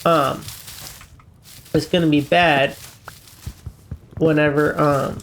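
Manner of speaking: congested, breathing through the mouth; stuffy nose, mouth open while talking. Real, not acted. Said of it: "I know I sound like a mouth breather like this".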